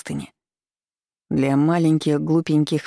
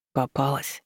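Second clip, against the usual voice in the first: whisper; 5 dB quieter than usual. A narrator's reading. Demon into her ear as he catches her, soft whisper. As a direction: murmur it softly, close to the ear. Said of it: "прошептал демон в ухо".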